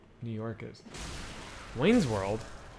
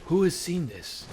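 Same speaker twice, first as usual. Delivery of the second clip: imitating Al Pacino; 3 semitones higher than usual. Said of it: "he's like".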